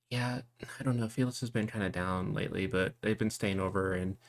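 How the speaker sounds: easy, lightly voiced sister; sister Holly. Sister to her girlfriend at the table, light chatty voice.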